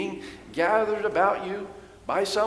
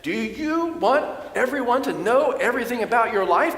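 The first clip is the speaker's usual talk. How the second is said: higher, insistent, ominous warning; paranoid warning; 5 semitones higher than usual. Retold or imitated. Preacher voicing his son's paranoid warning, higher insistent voice. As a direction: preach the dangers like a doomsayer. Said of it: "And he said".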